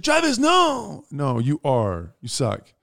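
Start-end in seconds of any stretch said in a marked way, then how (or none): 0.0-1.0 high, drawn-out cry of the sister; sister's mock protest. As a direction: imitate the sister objecting, high and slow. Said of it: "She's like".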